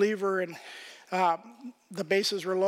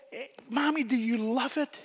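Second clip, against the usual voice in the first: put-on child voice; 5 semitones higher than usual. Child asks mother about drawing.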